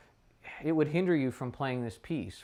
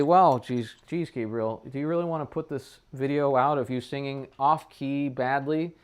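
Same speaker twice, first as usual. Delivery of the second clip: imagined viewer; 4 dB louder than usual. Pretend. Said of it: "And you might say".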